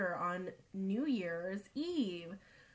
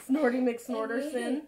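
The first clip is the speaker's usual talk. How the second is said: teasing nickname; 3 semitones higher, 7 dB louder than usual. Real, not acted.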